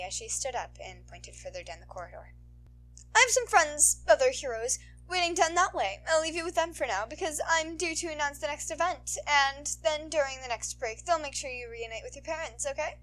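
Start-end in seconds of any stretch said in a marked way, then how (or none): 3.1-13.0 higher, louder, sweet-toned heroine voice; sultry heroine.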